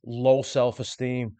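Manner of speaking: "low self-esteem" set apart by a short pause, said deliberately; emphasis on low self-esteem. Real, not acted. Presenter underlining a key term for viewers, "low self-esteem" emphasised. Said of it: "I want to emphasise the words".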